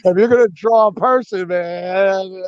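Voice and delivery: lightly voiced critical father; disapproving dad. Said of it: "his dad be like".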